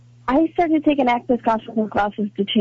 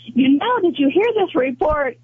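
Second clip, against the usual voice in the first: slightly higher, playful take on mother's question; imitated mother; 4 semitones higher than usual. Daughter teasing her mother about the news story, lightly imitated mother. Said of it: "I just love the subtlety".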